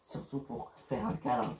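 soft, breathy murmur; hushed flirting with a partner; flirty whisper. Acted. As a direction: whisper it playfully. Flirty banter between lovers.

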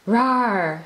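a child playing a fierce beast; Little Mai showing off her role, mock growl; playful growl. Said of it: "she growled".

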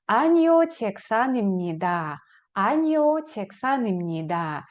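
Аніо чексанімніда slow and falling; slow model answer. Shown as a demonstration. Teacher drills the negative answer slowly. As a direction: drill it clearly. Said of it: "ви скажете".

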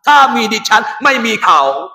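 lightly voiced woman speaking Thai; a hint of sweet-talking wife; imitated woman's sweet talk. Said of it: "Fatina kecek sedap".

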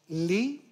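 "λι" with a plain, non-palatal L as in Italian; plain hard L. Shown as a demonstration. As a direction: say "λι" with the tongue tip, no y-glide. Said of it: "Δεν είμαστε όπως οι Ιταλοί". («λι» με σκληρό λάμδα)

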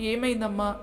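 mildly distressed mother's questions; understated motherly distress; pained concern. A narrator's reading. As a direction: ask with a touch of worry, pausing between calls. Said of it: "సౌజన్య బాధగా".

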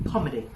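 "คอมเมดี้" falling away after the first syllable; unstressed ending. Shown as a demonstration. Teacher tells student not to stress it, "คอมเมดี้" falling. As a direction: let the end of "คอมเมดี้" drop naturally, no stress. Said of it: "แค่ไม่สเตรสมัน".

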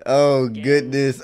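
slow "Oh, goodness"; drawn-out dismay. Real, not acted. Reacting to the episode, slow drawn-out exclamation. First take of a repeated reaction.

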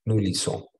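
"lisons" ends on a nasal "on" caught in the nose; "Nous lisons" ending trapped in the nose. Shown as a demonstration. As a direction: say "lisons" without the S, vowel nasal. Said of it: "sino como por la nariz y lo atrapan ahí".

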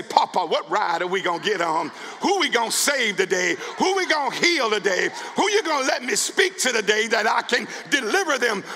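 stijgend naar luid, uitroepend; excited prayer. Retold or imitated. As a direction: roep het steeds hoger en luider uit. Believer's eager prayer quoted.

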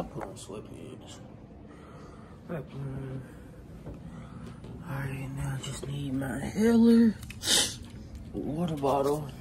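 soft unvoiced whisper. Real, not acted. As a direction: whisper it to yourself. Quiet aside while packing up.

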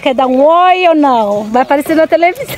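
teasing. Real, not acted. Teasing workers on camera.

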